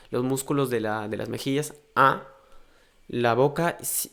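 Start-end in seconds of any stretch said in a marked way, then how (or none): 1.9-2.3 "A" loud, with cheeks stretched tight; tense nasal vowel. Shown as a demonstration. Teacher demonstrating the tense nasal vowel, louder. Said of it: "esta vocal es mucho más rígida".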